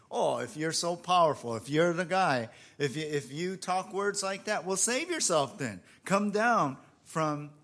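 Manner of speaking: goading, mock-challenging tone. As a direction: imitate a jeering crowd daring him. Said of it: "they're mocking him".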